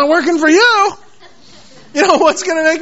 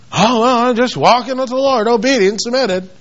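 mock grudging piety; 2 semitones lower than usual. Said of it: "Christians walk around like that".

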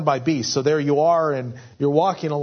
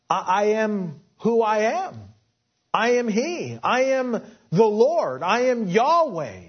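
a hint of a solemn, majestic God, pitched higher; 5 semitones higher than usual. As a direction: proclaim it lightly as God naming himself. Preacher voices God's self-naming.

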